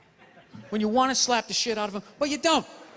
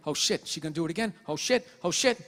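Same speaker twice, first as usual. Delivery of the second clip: nervous inner voice; 4 semitones lower than usual. Retold or imitated. Owner spotting a dude walking down the street, nervous. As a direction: worry to yourself under your voice. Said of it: "I immediately just start thinking".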